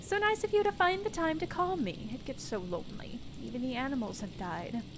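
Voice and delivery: put-on high, lonely old lady on the phone; old woman voice.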